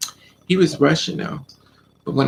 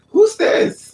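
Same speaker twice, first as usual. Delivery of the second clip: high, loud squeal of "who's this"; sudden mock outrage; 6 dB louder than usual. Boyfriend suddenly turning jealous, high loud mock demand. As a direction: fling it out in a shrill jealous voice. His mood suddenly turns.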